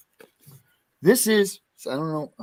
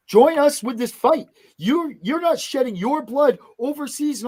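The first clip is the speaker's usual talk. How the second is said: rallying call; 7 semitones higher than usual. Real, not acted. Rallying call to service members.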